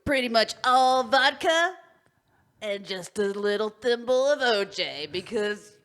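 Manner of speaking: slow, easy party-bro swagger; lightly voiced bro; dude bro voice. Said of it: "In our best dude bro voice".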